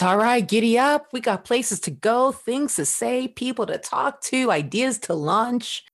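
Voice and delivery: bright giddy-up cheer, pitched high; excited pep talk. Pretend. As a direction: spur your own voice on like a horse. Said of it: "You are telling your voice".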